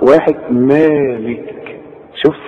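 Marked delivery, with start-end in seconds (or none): 0.5-1.5 مالك slowly with a two-beat "maa"; counted madd. Shown as a demonstration. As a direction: stretch the aa in مالك. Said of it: "تعد على صبعك". (مالك ببطء بمد الألف حركتين)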